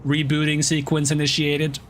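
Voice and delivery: slow, even robot voice. Pretend. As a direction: speak like a machine rebooting. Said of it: "Now I just sound like a robot".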